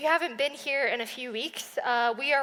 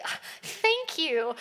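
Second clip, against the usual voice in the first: mock polite thanks; 5 semitones higher, 3 dB louder, slower than usual. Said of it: "you say".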